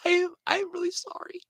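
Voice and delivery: breathy whispered apology, no voice at all. Real, not acted. Repeats apology after laughing.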